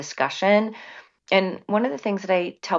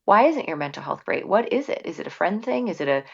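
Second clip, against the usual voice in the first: probing parent questions; 4 semitones higher than usual. Retold or imitated. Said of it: "leads into a conversation of".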